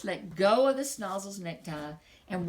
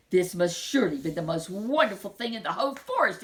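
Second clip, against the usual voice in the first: eager, louder exclamation; excited cry; 5 dB louder, faster than usual. Acted. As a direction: cry out in delight at the find. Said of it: "he cried".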